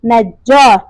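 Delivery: نجار said as "naj-JAAR", long final vowel; teacher's citation of نجار, doubled j and open "aa"; model pronunciation. Shown as a demonstration. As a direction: pronounce نجار carefully for learners, with a falling end. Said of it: "پروناؤنس کیسے کیا جائے گا".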